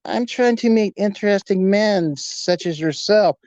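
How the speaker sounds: lightly put-on German stranger's accent; a hint of creepy German formality. German stranger propositioning a young man, light German accent. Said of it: "German accent".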